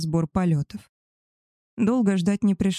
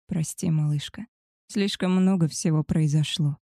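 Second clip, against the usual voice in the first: tender. Acted. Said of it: "нежно проговорил он".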